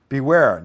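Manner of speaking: firm, emphatic "beware". Shown as a demonstration. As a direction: punch "beware" like a warning sign. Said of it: "That's emphatic".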